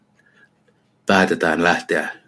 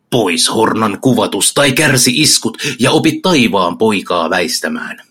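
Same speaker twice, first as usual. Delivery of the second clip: defiant challenge. Acted. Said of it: "kovin järpäinen ja sanoo".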